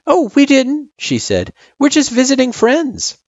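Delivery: put-on a shy kid answering an elder; young girl voice. Frisk replies.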